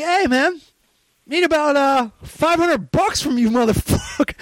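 pushy mock phone voice; imitated shakedown. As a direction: imitate a friend demanding money, stretching the words out. Retold phone demand for money.

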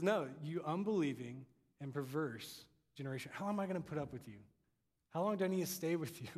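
mildly fed-up rebuke, quickening into questions; a touch of weary impatience; exasperated Jesus. Acted. Jesus losing patience with his followers, exasperated. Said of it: "seems exasperated".

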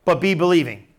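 very slow, drawn-out scripture quote; slow and measured, letting each phrase land; slow, deliberate. Retold or imitated. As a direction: stretch the words out, pausing between phrases. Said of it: "Now just go slow".

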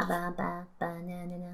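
Minion gibberish. Retold or imitated. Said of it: "Despicable Me Minion".

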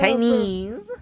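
Chinese in a high, loud mock East Asian accent. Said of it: "I'm Asian Chinese".

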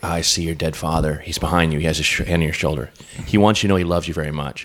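lightly done charlatan reading the room; mock psychic. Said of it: "the fucking charlatans that are just like".

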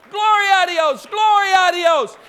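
high, loud cry of praise; imitated jubilant yell. Preacher acting out an old lady bolting out healed, yelling. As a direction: yell it as she did, twice over. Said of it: "And she's yelling".

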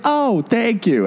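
high, slow imitated thank you; high mock thanks. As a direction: play the friend in a high voice. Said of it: "He's like".

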